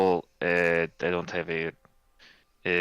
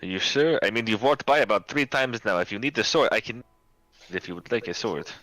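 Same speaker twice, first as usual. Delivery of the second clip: shopkeeper voice; 4 semitones higher than usual. Acted. GM voices Anton, raised pitch.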